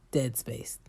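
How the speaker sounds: hushed whisper for emphasis. Acted. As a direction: drop to a whisper on it. Repeats phrase for effect.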